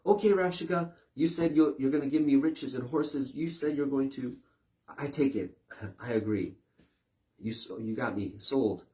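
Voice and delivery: high, loud, eager voice of someone giving in; mock surrender to Rabshakeh. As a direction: play the easily bought-off believer. Mimics people giving in to Rabshakeh.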